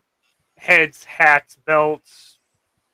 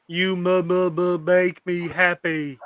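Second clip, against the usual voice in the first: slow stammering simpleton voice; Simple Jack voice; 2 semitones higher, slower than usual. Retold or imitated. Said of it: "it's the Simple Jack?".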